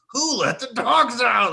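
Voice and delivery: loud, high, drawn-out earnest demand; very serious. Retold or imitated. Roommate asking from his room, dead-serious loud call. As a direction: call it out slowly, desperate to know. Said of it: "very seriously say from his room".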